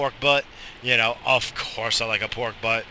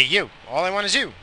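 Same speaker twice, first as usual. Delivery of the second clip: sweet answer; 7 semitones higher than usual. Retold or imitated. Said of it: "I just say".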